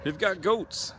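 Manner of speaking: light up at the goats; excited. Real, not acted. Goats spotted, voice rising.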